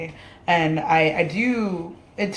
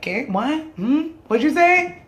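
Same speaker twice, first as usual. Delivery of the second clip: high-pitched puzzled questions; imitated confusion; 9 semitones higher than usual. People failing to understand her old accent, mock confusion. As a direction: mimic baffled listeners asking for a repeat. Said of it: "They would be like".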